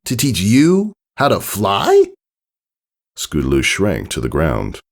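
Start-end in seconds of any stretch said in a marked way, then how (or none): 0.1-2.1 high, small, hopeful filly voice; a young pony asking shyly. Acted. Narrator voices Scootaloo.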